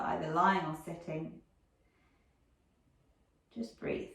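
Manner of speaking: calm meditation guide with long pauses; guided meditation. Real, not acted. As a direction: gently lead listeners inward, leaving silence between phrases.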